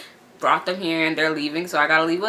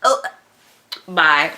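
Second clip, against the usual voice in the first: sarcastic goodbye; 3 semitones lower than usual. Retold or imitated. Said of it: "I was like".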